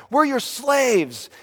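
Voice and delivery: high, drawn-out mock whine; slow, exaggerated childish wail; protesting kids. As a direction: imitate children complaining to a parent. Imitates his kids' protest to parents.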